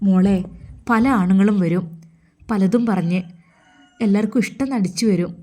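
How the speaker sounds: firm warning in short, emphatic phrases; motherly admonishing. Acted. Mother warns her daughter about men. (മകളെ ഗൗരവത്തോടെ ഉപദേശിക്കുന്ന ഉമ്മ)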